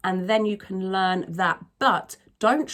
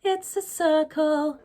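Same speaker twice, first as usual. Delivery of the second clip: British, no hard R; 6 semitones higher, slower than usual. Shown as a demonstration. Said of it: "I would sing it".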